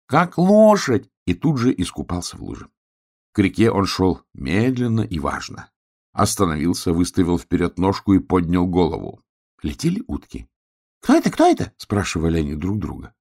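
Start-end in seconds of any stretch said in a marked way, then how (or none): 0.1-1.1 shout. Acted. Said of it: "крикнул поросенок". 11.0-11.7 little duck voice. Acted. Ducks ask each other.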